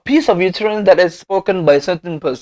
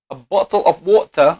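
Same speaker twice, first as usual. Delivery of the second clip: British accent, rounded o in bottle. Shown as a demonstration. Lecturer showing students a British accent. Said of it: "we have the two accent, English or British accent".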